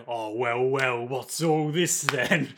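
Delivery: slow, lightly voiced old bobby; a hint of a village policeman sizing him up; mock British copper. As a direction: town guard lightly imitated. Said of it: "a bunch of guys being like".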